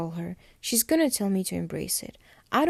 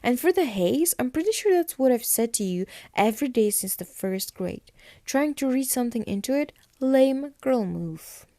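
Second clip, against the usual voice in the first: higher, lightly acted irritated comeback; mock mad; 4 semitones higher than usual. Matt snapping back at Caroline's accusation, mock mad. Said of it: "And then Matt gets mad".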